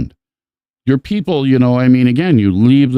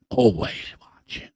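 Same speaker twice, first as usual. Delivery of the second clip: much softer, trailing ominous always watching; spooky echo; 7 dB quieter than usual. Real, not acted. Wolf sends a message to the kids, soft ominous echo. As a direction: let always watching fade out like a threat.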